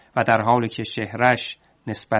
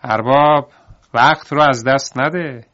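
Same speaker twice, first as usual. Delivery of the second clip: loud mocking call down to him; 2 semitones higher, 5 dB louder than usual. Davar calling up to the stranded master, loud taunting call. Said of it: "داد زد".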